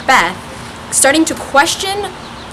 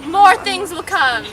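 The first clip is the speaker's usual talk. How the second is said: high, slow eerie witch call; 6 semitones higher than usual. Acted. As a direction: croon it like a prophesying witch. Witch delivering prophecy.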